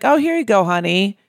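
high, sing-song mock sweetness; a pitch jump on Oh, syrupy sarcastic; sugary fake sweetness. Mocking an older woman's fake-sweet honey. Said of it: "you can tell in the tone".

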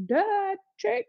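high-pitched, incredulous "obviously"; mock sassy retort. Laboring mother answering the nurse, sassy and incredulous. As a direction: toss it back as if it's obvious.

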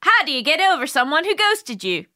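put-on Scottish accent. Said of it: "reading this email with a Scottish accent".

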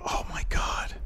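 breathy unvoiced whisper. Real, not acted. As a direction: whisper it in disbelief. Whispered reaction.

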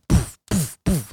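puffed "poof" for each footfall; rhythmic spoken footfall noises; imitated stomping footsteps. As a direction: mimic pounding feet with little puffs of sound. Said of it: "my feet are stomping".

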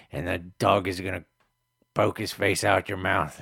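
loud, heated threatening tirade; angry rant. Acted. Neighbor threatening Hank with cops and dogs, loud angry rant. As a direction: keep yelling the threats at him.

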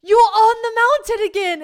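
high, very loud exasperated shout; unhappy yelling. Retold or imitated. James spots his friend on the mountain, unhappy yelling. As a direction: yell it in appalled disbelief. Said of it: "but not in a happy way".

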